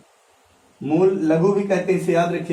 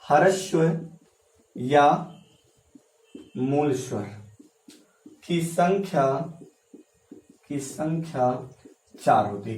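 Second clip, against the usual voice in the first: dictation pace; 3 semitones lower, 4 dB quieter than usual. Shown as a demonstration. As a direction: pause after each word so students can write. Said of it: "लिख लीजिएगा".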